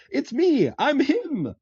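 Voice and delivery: very high, loud proud squeal; proud exclaim. Retold or imitated. Cobbler proudly claiming to be the famous shoemaker, high and loud. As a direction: crow it out like a proud little man.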